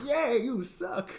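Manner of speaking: mock blunt. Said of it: "It's like".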